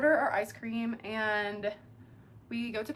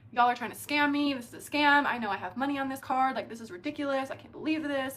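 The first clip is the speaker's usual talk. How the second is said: mad, berating; 2 semitones higher than usual. Retold or imitated. Customer whose card declined berating the staff, mock angry. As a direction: imitate an indignant customer telling staff off. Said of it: "getting mad at these people".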